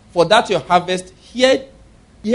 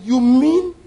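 higher, louder, eager you mean; excited disbelief; 7 semitones higher, 5 dB louder than usual. Retold or imitated. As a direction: ask it in thrilled astonishment. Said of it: "The Lord was excited".

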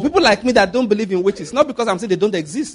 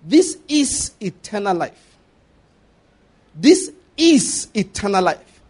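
slow solemn quote; slower than usual. Acted. Preacher quoting Jesus slowly twice.

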